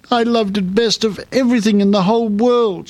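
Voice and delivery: high, tearful princess voice; sobbing. A narrator's reading. Princess mourning her lost golden ball, sobbing. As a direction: plead tearfully, pitched high. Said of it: "she sobbed".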